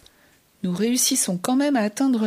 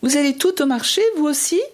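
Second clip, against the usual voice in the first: higher, fast call to a whole herd; crying out; 5 semitones higher, 3 dB louder, faster than usual. Acted. Shouting to the herd of goats to find hers, fast high call. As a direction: fire the question out quickly, higher. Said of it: "Je crie aux chèvres".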